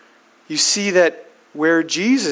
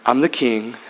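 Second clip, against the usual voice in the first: Jesus; 8 semitones lower, 3 dB quieter than usual. Acted. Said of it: "And now he says".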